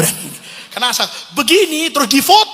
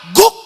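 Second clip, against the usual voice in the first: short, loud mock woof; imitated dog bark; 10 semitones higher, 9 dB louder than usual. Showing how the hunting dog signals, imitated bark. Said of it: "sampai dia teriak".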